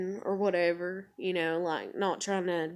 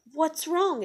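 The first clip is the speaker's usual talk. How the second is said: much higher mock-concerned question; pestering partner; 9 semitones higher than usual. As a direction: imitate insistent, pleading concern. Mimics partner pestering again.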